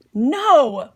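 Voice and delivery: put-on child's refusal. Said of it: "said Andrew".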